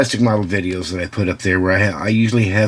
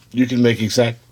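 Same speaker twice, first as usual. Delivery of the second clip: hiccups; 2 semitones higher than usual. Real, not acted. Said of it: "I'm getting the hiccups bad".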